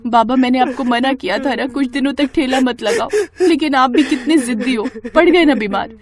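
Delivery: half-scold, half-cry at her father; tearful scolding. Acted. Daughter scolds her sick father, voice turning tearful. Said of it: "ये कहकर निशा रोने लगती है".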